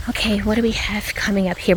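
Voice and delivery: hushed whisper on the trail; breathy half-whisper, checking ahead. Real, not acted.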